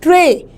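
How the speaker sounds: ट्रे set apart with weight; stressed syllable. Shown as a demonstration. Teacher isolating ट्रे to show its vowel, stressed syllable. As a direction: put stress on ट्रे by itself. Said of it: "वहाँ पे देना है stress".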